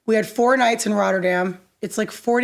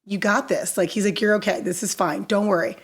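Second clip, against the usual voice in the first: softer, calm comforting tone; a hint of the Edge calming her down; lightly voiced reassurance; 3 semitones lower, 3 dB quieter than usual. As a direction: soothe a scared newcomer gently. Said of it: "the Edge just being like".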